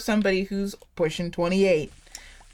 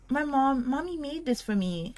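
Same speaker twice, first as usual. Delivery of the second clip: put-on higher, soft babyish voice; joking little-kid gushing; 6 semitones higher, 4 dB quieter than usual. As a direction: coo it like a proud little kid, half joking. Like, kind of a joke.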